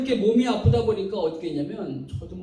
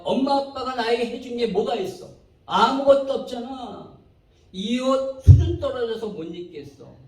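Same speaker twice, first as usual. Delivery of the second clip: higher-pitched grumbling at parents; preacher acting out a child's outburst; acted complaining child; 5 semitones higher, 5 dB louder than usual. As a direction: hurl the complaints like an ungrateful child. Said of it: "이 애가 어느 날 갑자기".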